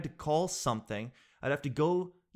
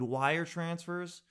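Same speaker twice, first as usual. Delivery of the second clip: slow dreaded words; 4 semitones higher, much slower than usual. Real, not acted. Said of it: "dreaded task repeated".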